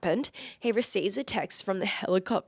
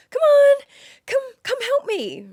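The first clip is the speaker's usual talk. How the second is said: high-pitched, drawn-in plea for help; high, insistent imitation of a partner's plea; mock coaxing; 9 dB louder than usual. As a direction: coax playfully in a much higher voice. Acting out partner coaxing her to help.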